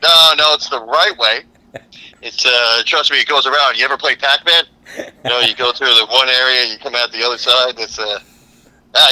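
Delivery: a con man talking his way in; imitating Columbus. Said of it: "It's like".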